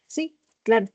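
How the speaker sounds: sincere, plain "Sí, claro"; agreeing. A narrator's reading. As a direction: say "claro" as if you truly agree. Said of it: "con un tono que indica que él está de acuerdo". (tono de acuerdo)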